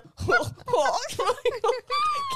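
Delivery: high, laughing mock clucking; chicken clucks. Asked about making him do a chicken, laughing chicken clucks. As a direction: cluck like a chicken through giggles. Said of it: "Would you make him do a chicken".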